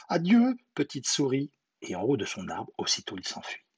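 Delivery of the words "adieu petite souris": high-pitched owl's farewell; frightened goodbye. Acted. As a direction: bid farewell as the startled owl. Frightened owl flees.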